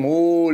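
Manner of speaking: understated imitation of a long howl; mild mock yell. Shown as a demonstration. Father showing sin's lasting pain, mild mock cry. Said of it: "אחר כך צועקים".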